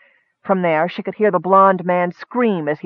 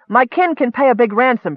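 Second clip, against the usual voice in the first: voice gaining strength; 6 semitones higher than usual. Acted. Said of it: "her voice gaining strength".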